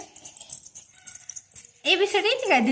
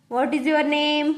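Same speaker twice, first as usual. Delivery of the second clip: put-on each word drawn out slowly for a child; slow teaching; much slower than usual. Shown as a demonstration. Mother teaching daughter, slow and clear. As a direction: spell it out slowly for her to copy. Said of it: "हळूहळू सांगायचं".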